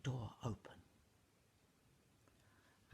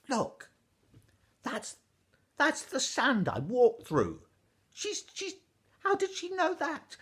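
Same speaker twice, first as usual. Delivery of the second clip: put-on high, loud, tumbling boy's voice; a boy bursting to show his find; excited boy; 10 semitones higher, 12 dB louder than usual. Ash boy showing the weaver his shoes, high and excited.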